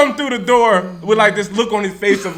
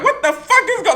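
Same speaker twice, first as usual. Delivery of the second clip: surprised; 11 semitones higher than usual. Retold or imitated. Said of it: "I'm like".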